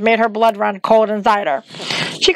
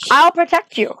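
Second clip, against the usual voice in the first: higher-pitched, mildly uneasy promise; 7 semitones higher than usual. A narrator's reading. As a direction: offer protection with a touch of unease. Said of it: "he said uneasily".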